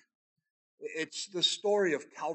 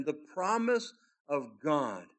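ordinary delivery

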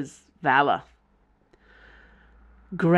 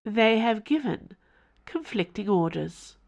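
creepy formal house; 5 semitones higher than usual. Acted. The house informing Mother in a creepy formal tone. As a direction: announce it like a cold formal servant.

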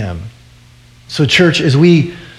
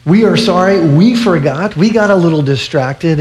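high, loud, gushing apology; a fan-media voice, high and sorry; apologetic media; 4 semitones higher, 3 dB louder than usual. Retold or imitated. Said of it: "the media were like".

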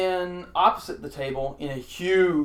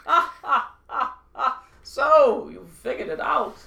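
high, loud gloating villain; 9 semitones higher, 6 dB louder than usual. Acted. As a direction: gloat like a sly king. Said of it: "Why do I sound like Bane?".

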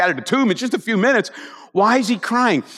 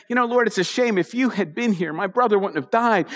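gentle, not condemning; 3 semitones higher than usual. Retold or imitated. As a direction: say it as a sigh of regret, no blame. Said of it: "She's just saying".

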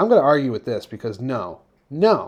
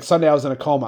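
"Sunday I was in a coma" said flatly, like announcing a coma; deadpan quote; much faster than usual. Retold or imitated. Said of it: "the way you said it was like".

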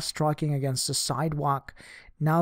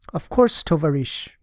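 eager reply; 4 dB louder than usual. Acted. Girl eagerly agrees.

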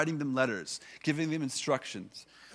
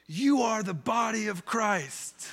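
put-on high, slow, childlike proud declaration; mimicking a child's sing-song announcement; imitating a little boy; 9 semitones higher, 4 dB louder, slower than usual. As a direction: say it like a six-year-old proudly reciting a school song. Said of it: "And he goes like this".

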